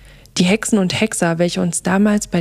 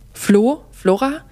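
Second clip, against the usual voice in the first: calling out; 5 semitones higher, slower than usual. Acted. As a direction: call her name across the woods. Calling out for Flora. (Florentin ruft laut nach Flora)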